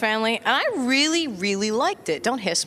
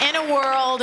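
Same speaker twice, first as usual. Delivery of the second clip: light trailer voice; 5 semitones higher, slower than usual. Retold or imitated. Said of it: "It's always".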